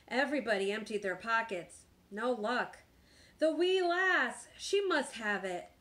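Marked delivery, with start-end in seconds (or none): 3.4-5.7 high, loud, slow holler; pirate holler. A narrator's reading. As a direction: holler it as an alarmed captain. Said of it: "Braidbeard hollered".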